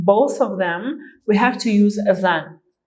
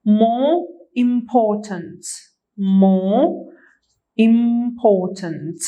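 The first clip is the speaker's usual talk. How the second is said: slow model answer; much slower than usual. Shown as a demonstration. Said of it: "we put more here".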